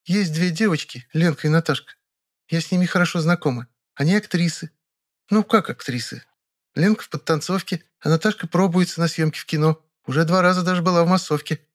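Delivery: put-on a young woman sharing news; girlish, chatty Vera; Vera chatting. A narrator's reading. Vera's voice held.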